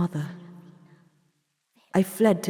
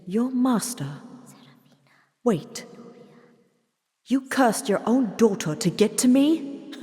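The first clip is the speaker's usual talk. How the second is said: shocked disbelief; 6 semitones higher than usual. Acted. Doctor appalled at mother cursing daughter. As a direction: hit it with disgusted shock.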